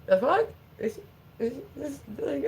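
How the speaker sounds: high yelped "The fuck?" trailing into a strained stammer; sudden blurted outburst. Retold or imitated. Streamer imitating Kelly's sudden swearing, high and blurted. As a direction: mimic a friend's out-of-nowhere outburst. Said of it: "and that's how she would say it".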